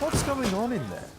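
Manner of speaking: calling out. Acted. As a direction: shout the question toward the next room. Calling through a door.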